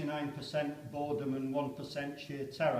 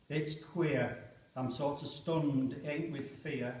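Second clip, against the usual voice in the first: soft inward recital; poem reading; 3 dB quieter, slower than usual. Acted. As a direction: speak it as a stunned soldier.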